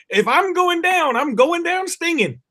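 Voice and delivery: high, slow mock-heroic last stand; defiant hornet. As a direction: play a doomed hornet vowing revenge. Doomed hornet vows to fight.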